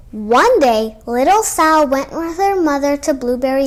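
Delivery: unvoiced, hushed start of the tale; whispered opening. Storyteller hushing the kids before the tale, whispering. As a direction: draw them in with a whisper.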